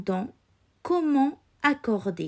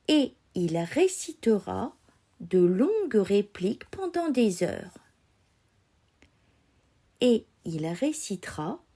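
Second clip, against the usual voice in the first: dictating. Acted. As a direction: read each chunk twice, carefully articulated. Teacher reads a dictation. (dictée lente, mot à mot)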